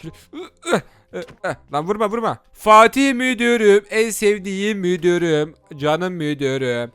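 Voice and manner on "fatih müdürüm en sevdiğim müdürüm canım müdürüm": slow, sweet-talking the boss; butter him up slowly; slow flattery. Acted. Flattering the chief.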